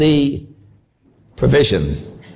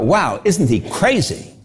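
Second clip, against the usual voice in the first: scoffing wow; slower than usual. Retold or imitated.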